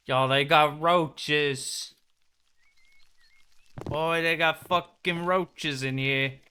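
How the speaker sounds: drawn-out, loud complaint; a slow, loud grossed-out warning to chat; loud, slow disgust. Real, not acted. Reacting to roaches in the game.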